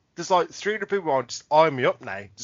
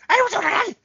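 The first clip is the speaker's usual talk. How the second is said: high flustered hey; flustered greeting; 3 dB louder than usual. Retold or imitated. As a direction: stammer it out, caught off guard. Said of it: "my exact words were".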